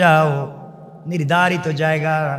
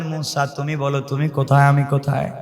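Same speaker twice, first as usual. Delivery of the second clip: calm counter-question; 3 semitones lower than usual. Acted. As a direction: turn the question back in a lowered voice. Acts God's calm reply.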